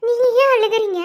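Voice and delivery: wife urgently begging her husband to say why he cries; pleading cry. Acted. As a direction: push out the plea.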